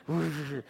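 low rushing sound effect; whooshing ride noise. Retold or imitated. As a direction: imitate a coaster going by. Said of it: "so you hear this whoosh".

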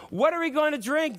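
high, loud, demanding whine; demanding complaint. Acted. Thirsty people demanding of Moses, loud high whine. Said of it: "they demanded".

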